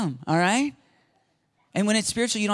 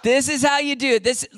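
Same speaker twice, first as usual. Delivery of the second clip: laughing; 4 semitones higher than usual. Real, not acted. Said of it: "I can't unhear that now".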